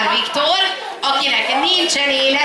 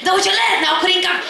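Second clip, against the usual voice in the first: higher-pitched imitation of an apologetic entrant; imitated contestant's request; 6 semitones higher than usual. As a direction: ask pleadingly, voice lifted, as a retold quote. Imitates late entrant's timid request.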